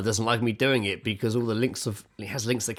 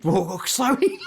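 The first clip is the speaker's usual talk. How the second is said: higher, careful coaxing; cautious warning; 9 semitones higher, 3 dB louder than usual. Retold or imitated. Partner telling the painted child to move slowly, higher cautious warning. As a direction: hold her off gently but urgently. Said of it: "Lizzie's just like".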